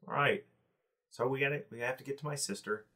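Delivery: a hint of a nervous little goblin. Goblin Eckler voiced by GM.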